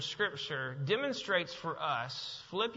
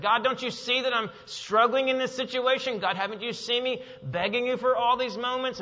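frustrated with God; 6 semitones higher, 6 dB louder than usual. Acted. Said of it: "when we get frustrated with God".

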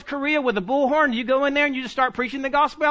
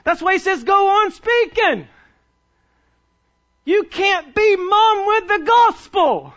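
higher and louder, slow, building to a shout; rising full-force preaching; preaching climax; 6 semitones higher, 5 dB louder than usual. Real, not acted.

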